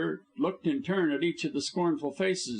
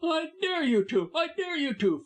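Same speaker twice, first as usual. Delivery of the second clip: raging dare; foaming rage. A narrator's reading. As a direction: lose your temper completely. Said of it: "foamed Busham, lost his temper".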